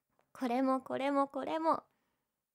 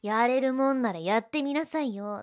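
ordinary delivery

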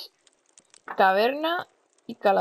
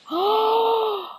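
high surprised shout; 13 semitones higher than usual. Real, not acted. Sudden discovery in game.

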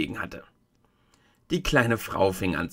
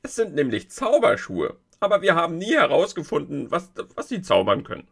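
lightly higher, louder little folk voice; a hint of an eager little creature; Mümmler; 8 semitones higher, 3 dB louder than usual. A Mümmler tells Dorothy about the shoes, lightly voiced.

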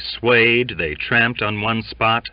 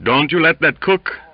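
high, urgent sickbed appeal; breathed plea; 8 semitones higher, 5 dB louder than usual. A narrator's reading. Sick sailor begging his mate, urgent appeal. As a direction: plead with a mate for protection. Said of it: "he breathed out".

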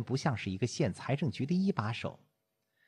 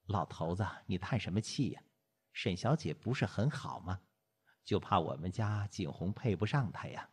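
a hint of a fretting old wife, lower; lightly voiced grandmother; 3 semitones lower, 5 dB quieter than usual. Grandmother to her sighing husband, lightly voiced, gently chiding. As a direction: keep it low and homely, gently chiding.

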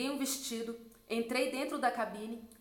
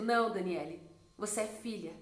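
lower, lightly voiced put-down; dismissive correction; 4 semitones lower than usual. Pastor putting the missionary in her place, dismissive correction.

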